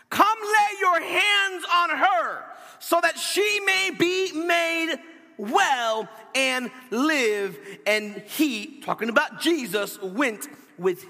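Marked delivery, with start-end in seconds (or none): 0.1-7.6 high, drawn-out plea, slowing and dropping at the end; earnest imploring. A narrator's reading. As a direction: implore with long-held, raised words. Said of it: "implored him earnestly".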